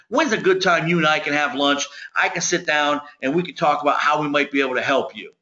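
relaxed, confident owner talking to an equal; peer-to-peer pitch. Shown as a demonstration. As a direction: talk like one owner to another. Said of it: "this is what it sounds like".

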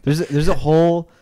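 imitating monotone dudes. Host mocking a generation of dudes, monotone imitation. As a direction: mimic how those dudes talk, stretched and level. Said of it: "that talk like this".

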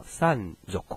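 Japanese "三足" read san-zoku; "三足" with zoku after san; voiced Z, sanzoku. Shown as a demonstration. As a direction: voice the s of soku to z in "三足". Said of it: "它又会产生".

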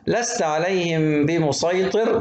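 slow recitation, بمسيطر with emphatic "s"; sad reading. Shown as a demonstration. Teacher reciting from al-Ghashiya, sad in بمسيطر. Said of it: "بالصاد".

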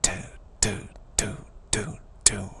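short separate "toot" bursts; breath hitting teeth. Shown as a demonstration. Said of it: "the breath, uh, you know, hitting the teeth".

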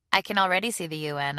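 mild hint of nervous giggle; little hysterical giggle. Woman answers her caller, mildly giggly. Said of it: "with a little hysterical giggle".

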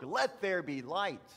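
proclaiming as God. Retold or imitated. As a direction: proclaim it firmly, lightly voicing God. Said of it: "how God spoke".

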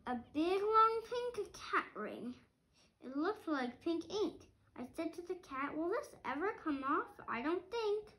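lively storybook read-aloud; reading to children. A narrator's reading. Parent reading a picture book to a child, lively. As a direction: read it like a bedtime book for kids.

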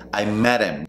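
"met him" linked as "medem"; dropped H. Shown as a demonstration. Teacher repeating, linked pronunciation. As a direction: swallow the H of "him". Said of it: "no vas a pronunciar la H".

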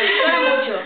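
very high squeaky voice; cartoon chipmunk squeak; helium voice. Real, not acted. Speaking right after inhaling.

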